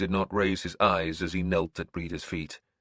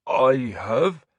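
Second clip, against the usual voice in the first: nervous; 6 semitones higher, 6 dB louder than usual. Acted. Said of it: "He sounded nervous".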